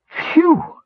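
very high-pitched "phew"; acted revulsion at a stink; disgusted recoil. A narrator's reading. Herder reacting to the captive's smell, disgusted recoil.

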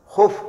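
"خف" with a short u, khuf; "خف" mispronounced khuf, u instead of a; wrong vowel. Retold or imitated. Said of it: "غير صحيح".

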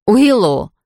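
calling out loud; shouting a name. Acted. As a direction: call her name in alarm. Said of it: "закричала я". (громкий крик)

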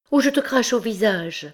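high-pitched, distraught threat; frantic. A narrator's reading. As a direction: threaten him in a high, desperate voice. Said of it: "Éperdue".

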